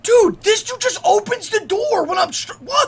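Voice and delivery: loud annoyed yell; shouting. Real, not acted. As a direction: yell over the interruption. Yelling at interrupting friend.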